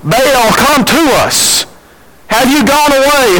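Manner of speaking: mock yelling. Prophets of Baal calling upon their god, mock yelling. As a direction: imitate a crowd crying out to its god.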